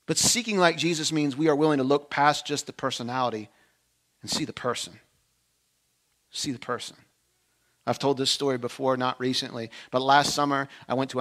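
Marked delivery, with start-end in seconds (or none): 4.2-5.0 soft emphasis. Real, not acted. Preacher drops voice for point. 6.3-7.0 soft repeat. Real, not acted. Preacher repeats softly.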